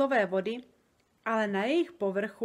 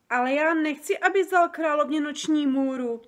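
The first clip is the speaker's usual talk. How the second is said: high, louder, alarmed plea; frightened protest; 5 semitones higher, 7 dB louder than usual. A narrator's reading. Sofie begs the giant not to give the queen a nightmare, high frightened cry. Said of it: "vyděsila se Sofie".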